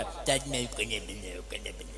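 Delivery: low, fading whispered mock of the question; mocking mimic. Pupil mocking the teacher's question, low into a whisper. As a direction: sneer the question away into a whisper.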